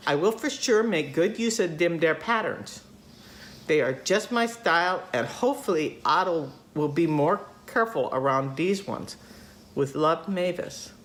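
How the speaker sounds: lightly put-on Minnesota accent; imperfect imitation of a Minnesota accent; Mavis. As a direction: keep reading as a folksy Minnesotan. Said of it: "she's from Minnesota. Just go with it".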